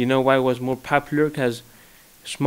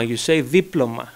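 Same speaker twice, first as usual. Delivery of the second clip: Greek accent, diploma said thiploma. Shown as a demonstration. Greek accent on diploma, teasing both languages. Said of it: "in Greek, you pronounce every letter".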